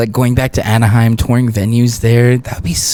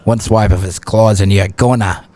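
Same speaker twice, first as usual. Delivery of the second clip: lightly put-on lower character voice; slightly deeper storytelling character; character impression; 5 semitones lower than usual. Shown as a demonstration. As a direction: voice a dramatic wildlife warning in character. Demo of a character voice.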